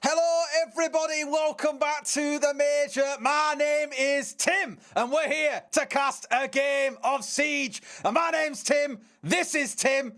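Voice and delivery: high, slow put-on Mancunian accent; hammed-up Mancunian caster voice; attempted Mancunian accent. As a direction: stretch the words out in a forced Manchester accent. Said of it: "I can't do the accent anymore".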